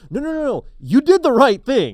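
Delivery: high, loud, rushed reassuring; eager reassurance. Retold or imitated. Reassuring the embarrassed girl, high and loud. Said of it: "I wanted to be like".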